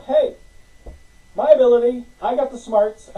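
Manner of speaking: loud cocky boast; boastful voice. Retold or imitated. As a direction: brag like a know-it-all. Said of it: "Sometimes he'll say".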